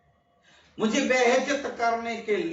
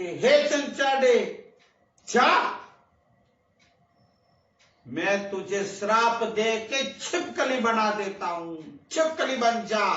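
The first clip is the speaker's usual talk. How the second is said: angry curse. Acted. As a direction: lay a curse on her with measured wrath. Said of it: "क्रोध में बोले".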